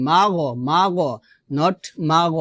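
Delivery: "মাগ" said "ma-go"; two-syllable "মাগ", g not closed; mistaken magh. Shown as a demonstration. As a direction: add a vowel after g in "মাগ". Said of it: "মাগ বলা যাবে না".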